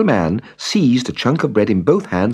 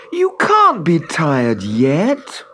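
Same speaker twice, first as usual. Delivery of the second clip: Hans's voice; 9 semitones higher, much slower than usual. A narrator's reading. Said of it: "said Hans".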